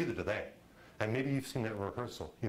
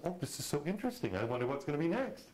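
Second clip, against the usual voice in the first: higher, intrigued musing; fascinated wonder; 5 semitones higher than usual. Retold or imitated. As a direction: marvel at it with lifted pitch. Retells his fascinated reaction.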